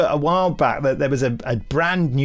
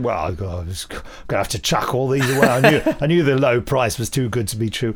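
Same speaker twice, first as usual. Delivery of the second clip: un-posh Toby voice; 2 semitones lower than usual. Retold or imitated. Storyteller mimics Toby binning the water bottles, lightly voiced geezer. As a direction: lightly put on working-class geezer. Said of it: "I don't know why Toby's speaking like that".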